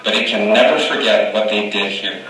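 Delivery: measured, solemn oration; formal speech recital. Acted. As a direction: deliver it like a statesman at a podium. Recites the Gettysburg Address.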